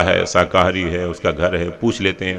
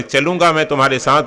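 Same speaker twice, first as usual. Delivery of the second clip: Shiva's condition; 5 semitones higher than usual. Retold or imitated. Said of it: "एक शर्त रख दी शंकर जी ने".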